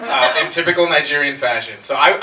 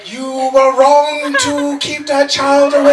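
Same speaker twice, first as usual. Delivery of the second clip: loud, slow, laughing argument; mock argument; 13 semitones higher, 8 dB louder, much slower than usual. Real, not acted. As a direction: argue the point loudly. Heated mock argument about movie.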